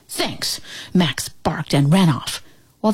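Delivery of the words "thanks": unvoiced breathy thanks; whisper. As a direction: breathe the word.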